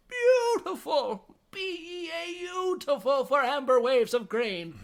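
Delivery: loud, very high, drawn-out flowery mockery; sarcastic teacher. Teacher mocking Carrie before class, sarcastic and bubbly. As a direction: ham it up, soaring and slow, mocking her. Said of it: "he's doing it very sarcastically".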